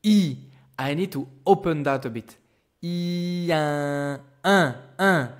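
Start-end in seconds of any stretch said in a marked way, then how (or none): 2.8-5.3 plain I, then an opened, nasal un; teacher building un from I. Shown as a demonstration. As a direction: go from I to un by opening the mouth. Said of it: "do the normal I sound".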